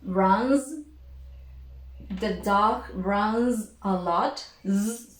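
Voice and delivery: "runs" with an overlong buzzing z; teacher overdoing the z in "runs" for the class; exaggerated z. Shown as a demonstration. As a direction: stretch the z of "runs" well beyond normal. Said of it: "I'm exaggerating the sound".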